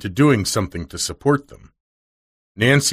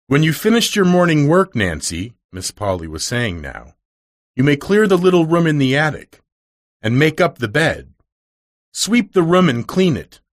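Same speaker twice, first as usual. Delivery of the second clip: higher, lightly voiced stern lady giving orders; a hint of a strict mistress instructing; severe mistress; 5 semitones higher than usual. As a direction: order the maid about briskly.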